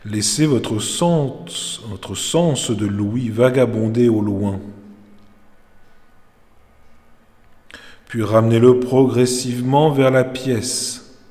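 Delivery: measured Yoga Nidra instruction with long pauses; calm meditation teacher's voice; guided meditation. Real, not acted. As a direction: guide them into rest, phrase by phrase. Leads Yoga Nidra session.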